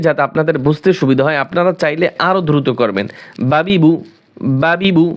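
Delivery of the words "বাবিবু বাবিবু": "বাবিবু" run together quickly as one word; fast drill. Shown as a demonstration. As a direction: rattle off "বাবিবু" fast with no gaps. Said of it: "উচ্চারণটা দ্রুত করতে হবে".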